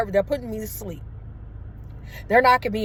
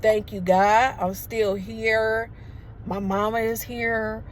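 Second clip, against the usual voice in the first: tearful thanks; slower than usual. Retold or imitated. Waking up grateful, crying.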